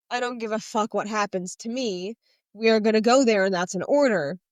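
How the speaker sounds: retelling an angry leader's command; angry order. Retold or imitated. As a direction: lay down the order and make it final. Xaden upset giving an order.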